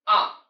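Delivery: AH short, only going down; half third tone. Shown as a demonstration. Teacher shows mid-sentence tone, short low-falling AH. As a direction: drop AH low and cut it before any rise. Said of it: "Go down part".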